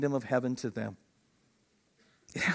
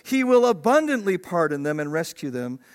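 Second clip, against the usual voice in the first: indignant preaching; 7 semitones higher, 5 dB louder than usual. Retold or imitated. Pastor answers critics of deathbed conversions.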